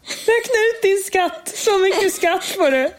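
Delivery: high, slow, hammed-up official announcing your tax; mock tax-office voice. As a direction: play a pompous tax official, dragging the words. Mocking the word skatta. (hånfull skatteverksröst, hög och långsam)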